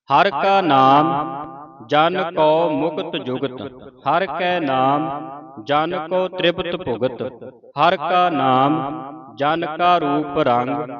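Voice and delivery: measured Gurbani reading, phrase by phrase; slow, deliberate reading with drawn-out final vowels; scripture recitation. Shown as a demonstration. (ਠਹਿਰਾਅ ਨਾਲ ਗੁਰਬਾਣੀ ਸੰਥਿਆ ਪਾਠ)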